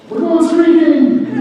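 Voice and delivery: high, drawn-out party holler; Will Ferrell movie quote. Retold or imitated. Panelist quoting a comedy film to the crowd, drawn-out holler. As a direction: call it out high, stretching the words. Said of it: "that movie with Will Ferrell".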